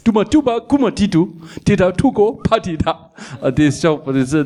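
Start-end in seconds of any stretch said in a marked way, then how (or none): 0.0-2.9 higher, hammed-up foreign babble; mock gibberish speech. Man at the airport greets him in made-up language, lightly hammed gibberish. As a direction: rattle off made-up words like a local greeting him. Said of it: "siger han så på".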